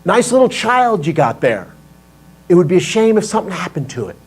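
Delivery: mock mobster menace, sweetly; a cheerful gangster's veiled threat; friendly threat.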